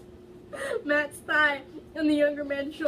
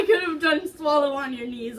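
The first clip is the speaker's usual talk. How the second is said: defensive shout; 4 semitones higher, 8 dB louder than usual. Real, not acted. Reader defends the story.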